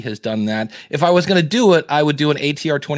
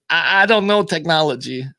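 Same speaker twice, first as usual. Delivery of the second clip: mock helpless caller; 3 semitones higher than usual. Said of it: "somebody who goes".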